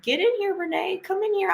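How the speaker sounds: high, bright beckoning call; mock-excited come-on-in voice; eager invitation. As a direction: call her in with big enthusiasm. Eager invite to Renee, retold.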